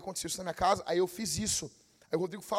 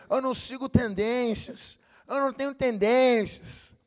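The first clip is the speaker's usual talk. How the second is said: mocking quote; 5 semitones higher than usual. Mocking would-be originals.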